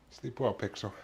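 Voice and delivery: soft goodnight to the pet; tender goodnight. Real, not acted.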